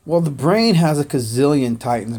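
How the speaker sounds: ordinary talk, nothing marked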